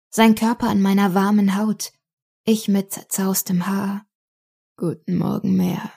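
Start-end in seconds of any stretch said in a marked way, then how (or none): 4.8-5.9 gentle, slightly hushed greeting; lightly voiced tender man, a touch softer; soft, deep voice. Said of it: "seine sanfte, tiefe Stimme".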